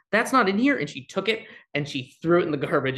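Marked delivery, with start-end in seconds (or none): 0.1-0.8 higher and louder, a teacher suddenly fed up; a lightly voiced teacher tossing the book aside; indignant teacher. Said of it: "She goes".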